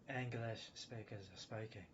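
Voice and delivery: slow mock British accent; lightly exaggerated British accent; mimicked British accent. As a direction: stretch it out in an imitated British accent. Mimicking other English speakers' accent.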